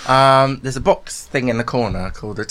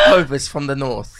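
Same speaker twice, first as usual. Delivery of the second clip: slow, drawn-out mock northern English accent; 3 semitones higher, 4 dB louder than usual. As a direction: stretch it out in a put-on northern accent. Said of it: "Can you do a northern accent?".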